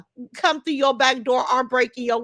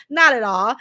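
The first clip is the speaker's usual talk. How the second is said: louder, punched repeat of the refusal; firm louder repeat; 2 semitones lower, 4 dB louder than usual. Real, not acted. Streamer insisting to viewers, louder and firm. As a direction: say it again with force.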